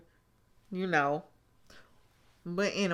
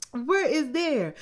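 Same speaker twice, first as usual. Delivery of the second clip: higher, louder, slow and pointed, falling at the end; exasperated mock question; 7 semitones higher, 4 dB louder than usual. Real, not acted. Vlogger talking back to Kirsten on screen, slow pointed disbelief. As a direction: drag out Where is there? slowly and hit Where hard. Repeats the mocking question slower.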